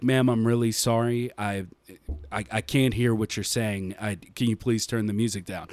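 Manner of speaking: soft, low, polite customer-service voice, a bit fast at the end; meek apologetic drive-thru voice; hushed low customer service politeness; polite quiet worker voice. Retold or imitated.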